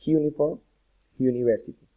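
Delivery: "uniform", "university" said separately with a J-like onset; "uniform", "university" as if spelt with a Spanish J; consonant-like start. Shown as a demonstration. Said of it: "como si fuera una J".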